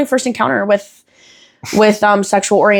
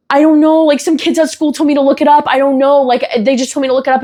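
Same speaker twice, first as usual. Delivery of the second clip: put-on defensive child; 5 semitones higher than usual. Child caught, making excuses to mom.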